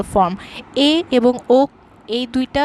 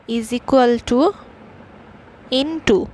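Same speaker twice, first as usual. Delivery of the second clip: slowly spelled out; much slower than usual. Shown as a demonstration. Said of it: "slow teaching formula".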